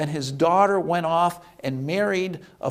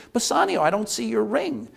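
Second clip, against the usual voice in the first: mock accusing call; 5 semitones higher than usual. Portia confronts husband about ring.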